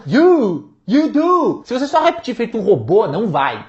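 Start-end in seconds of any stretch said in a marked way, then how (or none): 0.1-1.6 punchy, emphatic you do; meant for real. Shown as a demonstration. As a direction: say it like you mean it. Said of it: "imaginar que você tá falando".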